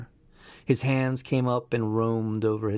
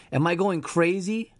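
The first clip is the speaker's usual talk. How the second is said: voice cracking; 8 semitones higher than usual. A narrator's reading. Dave asks the voice in his head, voice cracking. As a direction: let the voice crack on the last words. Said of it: "Dave's voice cracked".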